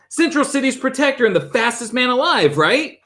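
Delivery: put-on high, eager old professor; lightly voiced old scholar; old man voice. Doctor Milton character voice.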